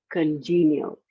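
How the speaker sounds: "congenial" with the weight on JEE, falling at the end; stress second syllable. Shown as a demonstration. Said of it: "the emphasis is obviously on the second syllable".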